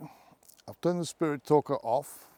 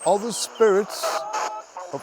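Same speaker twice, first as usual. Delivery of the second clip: raised questioning call; 4 semitones higher than usual. Real, not acted. Ghost hunter asks after black-eyed children's spirits, calling out. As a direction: project it across the open space.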